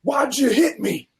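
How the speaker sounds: high, slow whiny mock of the other driver; squeaky mock outrage. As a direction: play the indignant guy who caused the crash. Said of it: "he's like".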